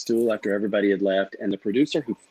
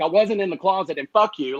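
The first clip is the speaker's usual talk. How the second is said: higher-pitched, defensive comeback; retold upset retort; 6 semitones higher than usual. Player retelling his retort to accusations, upset and defensive. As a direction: protest hotly, as a retold outburst. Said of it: "I was so just a mess".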